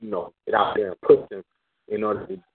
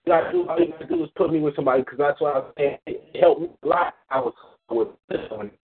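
robotic bad connection; 4 semitones higher than usual. Real, not acted. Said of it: "Oh, you sound like a robot".

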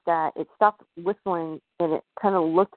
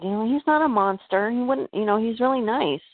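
higher-pitched, mildly upset retold objection; upset protest; 5 semitones higher than usual. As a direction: imitate a girl protesting in defence of a friend, pitched up. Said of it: "she was just really upset".

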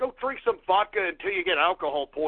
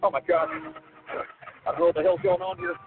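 frantic, scared shouting; panicked yelling; 4 semitones higher, slower than usual. Real, not acted. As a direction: yell in a panic at the danger. Panicking as train approaches.

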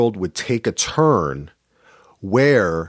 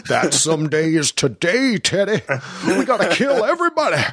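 mock high character voice; 8 semitones higher, faster than usual. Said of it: "He goes".

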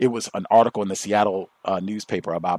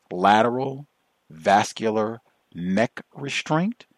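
mock-reverent whisper of the term; hushed and slow, savoring the jargon; slower than usual. Shown as a demonstration. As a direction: whisper lateral, then slow, reverent restraint. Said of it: "It sounds so scientific".

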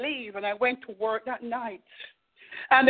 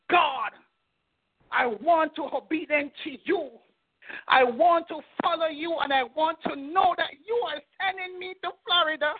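tearful prayer. Real, not acted. Crying while retelling her prayer.

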